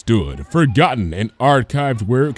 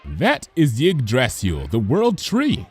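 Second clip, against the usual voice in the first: bright teacher voice; 2 semitones higher, slower than usual. Acted. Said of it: "Cheerilee said brightly".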